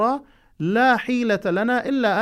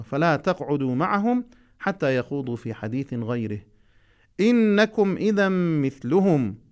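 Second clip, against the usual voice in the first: measured, slow recitation; Quran recitation; slower than usual. Acted. Teacher reciting a verse to students, slow measured recitation. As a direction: recite each word deliberately for the class.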